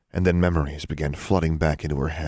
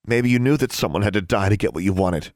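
louder, higher insinuation; accusing; 4 semitones higher, 5 dB louder, faster than usual. Acted. Daughter accusing her father of knowing, pointed. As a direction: press the accusation on him.

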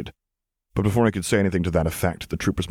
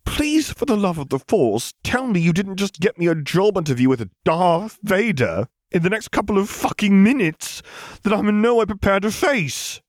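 slow, much higher, pleading voice; slow and desperate; 12 semitones higher than usual. A narrator's reading. Zev pleading with Luke, slow and high. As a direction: drag each word out, begging him. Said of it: "he said slowly with a desperate edge".

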